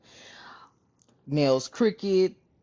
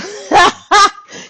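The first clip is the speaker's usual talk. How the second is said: high, bursting laugh; loud cackle; 13 semitones higher, 14 dB louder than usual. Real, not acted. Amused telling viewers about designer finds, loud cackle. Amused by Louis Vuitton giveaway.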